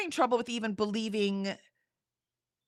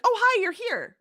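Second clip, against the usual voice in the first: mock casual greeting; 12 semitones higher than usual. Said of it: "he's like".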